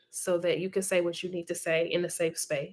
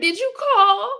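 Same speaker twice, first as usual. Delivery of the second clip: high squeaky question through laughter; laughing hard. Real, not acted. Asking Andrea about her grill purchase, laughing hard. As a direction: barely get the question out before cracking up. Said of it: "I'm laughing so hard".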